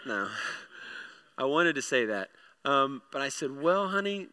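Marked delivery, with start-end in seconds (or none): 3.6-4.3 placating, lifted opening; smoothing it over. Retold or imitated. Dad to six-year-old asking about death, smoothing it over. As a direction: gently stall with a child. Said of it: "I'm kind of smoothing this".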